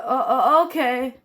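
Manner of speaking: real giggles breaking through the word okay; can't hold back the laugh. Real, not acted. Storyteller cracking up mid-story, laughing.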